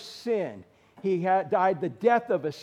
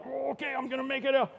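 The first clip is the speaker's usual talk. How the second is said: mock casual excuse; 7 semitones higher, faster than usual. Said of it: "the way you do that is not like".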